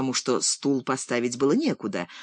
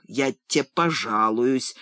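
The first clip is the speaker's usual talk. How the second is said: mock shout; 3 semitones lower, slower than usual. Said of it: "выкрикнул отец".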